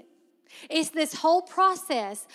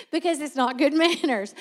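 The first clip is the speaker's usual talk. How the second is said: words broken by laughter; laughing. Real, not acted. Retelling Miss June's etiquette lesson, laughing through it. Still laughing after punchline.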